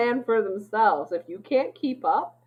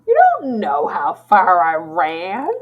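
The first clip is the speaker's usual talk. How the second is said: mock indignant; 10 dB louder, slower than usual. Defending herself, mock indignant.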